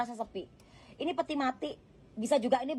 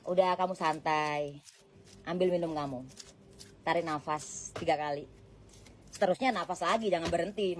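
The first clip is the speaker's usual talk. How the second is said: calming; 4 semitones lower than usual. Real, not acted. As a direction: settle them down gently, like a friend. Calming the viewer down.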